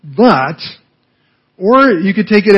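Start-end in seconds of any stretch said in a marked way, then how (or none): 0.0-0.6 Yes, I agree drawn out very slowly, conceding; a slow, grudging yes before the but; hesitant yes. Shown as a demonstration. Woman half agreeing with Jesus, slow and hesitant. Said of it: "two ways to take this yes".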